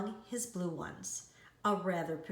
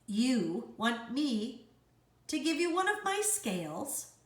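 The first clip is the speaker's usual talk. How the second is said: indignant cry; 4 semitones higher, 3 dB louder than usual. Acted. Rainbow fish rebuffing the little fish, indignant cry. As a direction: scoff in proud outrage. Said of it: "cried the rainbow fish".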